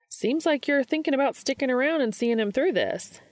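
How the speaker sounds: a lightly voiced Gabe pressing Dean; big brother sizing up the boyfriend; protective older brother. A narrator's reading.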